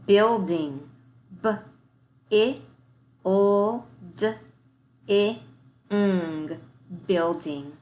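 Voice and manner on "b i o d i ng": "Feeling" split into single sounds, with "ing" as "I" then "ng"; segmented sounds. Shown as a demonstration. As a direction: sound out "Feeling" one sound at a time. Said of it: "start our warm-up by segmenting".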